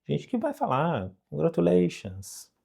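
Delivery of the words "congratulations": slow, mild "congratulations" falling gently; calm congratulations. Shown as a demonstration. Teacher showing a calmer way to say congratulations, mild. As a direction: ease "congratulations" out, tranquil and mild. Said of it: "de uma maneira mais amena, mais tranquila".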